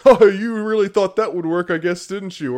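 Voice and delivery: mock the player like a cheesy game narrator; hammy sci-fi narrator voice; exaggerated announcer. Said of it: "like, announcer voice".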